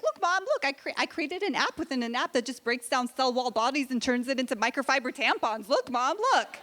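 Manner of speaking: put-on eager genius kid. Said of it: "be like".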